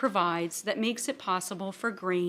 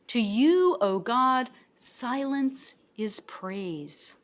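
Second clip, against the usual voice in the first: slow, weighty reading with "silence" drawn out; slow scripture reading; slower than usual. Acted. Reading Psalm sixty-five to the class, slow and solemn. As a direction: linger on "silence is praise" as a solemn quote.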